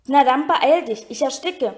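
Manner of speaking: Harry gasps it out, plant round his chest; choking out. Acted. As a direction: force it out while being strangled. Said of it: "wirkte Harry hervor".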